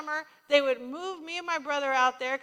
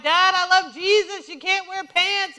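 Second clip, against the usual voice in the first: loud, slow insistent plea; loud childish protest; pleading child; 4 semitones higher, 11 dB louder, slower than usual. Retold or imitated. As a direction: beg your dad earnestly, dragging it out.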